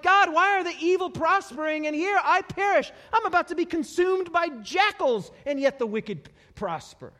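loud, high lament; psalmist crying out. Retold or imitated. Psalmist asks why evil prospers, crying out. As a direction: wail a complaint up to God. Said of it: "the psalmist cries out".

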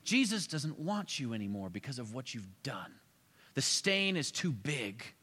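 slow, sly tempter lightly voiced; the devil's voice. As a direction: drag out the accusation like a whisper in the mind. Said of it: "He can bring thoughts into your mind to think".

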